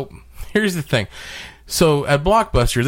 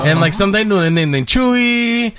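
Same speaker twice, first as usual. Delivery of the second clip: put-on Hispanic accent; 8 semitones higher than usual. Prank caller to toy store in light Hispanic accent. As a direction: play a confused dad with a Hispanic accent. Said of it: "very Hispanic name".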